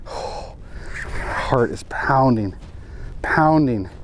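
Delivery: slow, hushed nervous breath. Real, not acted. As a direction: heart racing, barely breathing it. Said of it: "I'm so nervous".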